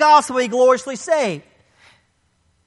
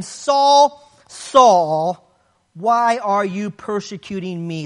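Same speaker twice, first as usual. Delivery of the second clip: emphatic call; 5 semitones lower, slower than usual. Acted. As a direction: call his name out like a rebuke from heaven. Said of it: "The repetition is emphatic".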